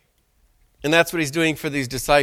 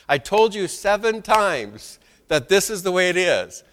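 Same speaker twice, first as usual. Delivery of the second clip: exasperated parent; 3 semitones higher, 3 dB louder than usual. Retold or imitated. Preacher imitating himself scolding son.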